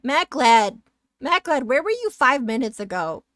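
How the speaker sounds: mock scolding. Streamer chiding a late viewer, mock outrage. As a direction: call out the name and demand an answer, playfully.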